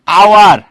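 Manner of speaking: আওয়ার said alone and loud, opening on a vowel; pronunciation demo. Shown as a demonstration. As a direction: call out আওয়ার firmly with no h at the start. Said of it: "উচ্চারণ করো তো". (আওয়ার জোরে, স্পষ্ট উচ্চারণ, শুরুতে হ ছাড়া)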